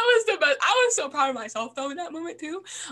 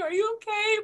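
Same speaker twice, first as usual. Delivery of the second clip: higher-pitched mock concern while laughing; asking through laughter; 6 semitones higher than usual. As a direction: imitate asking after a friend while giggling. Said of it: "But still laughing".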